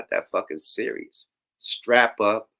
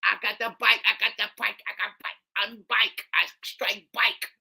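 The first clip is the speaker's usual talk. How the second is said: a high mock of slurred rapper lines; mock country-grammar rap voice; mocking a rapper's slang; 8 semitones higher than usual. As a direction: chant the slang like a lazy rapper. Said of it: "All that country grammar shit".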